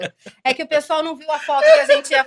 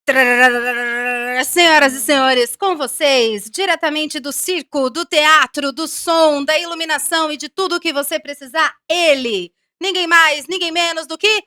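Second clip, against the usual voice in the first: circus ringmaster presenting the star; grand entrance announcement; 2 semitones higher, 4 dB louder than usual. Acted. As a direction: build up, then boom out the name.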